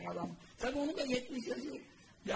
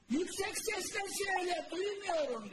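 pretending deafness; 9 semitones higher than usual. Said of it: "Mübarek hemen demiş ki".

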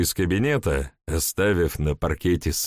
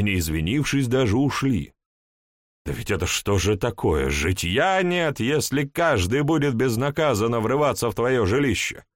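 indignant complaint; 5 semitones higher than usual. Acted.

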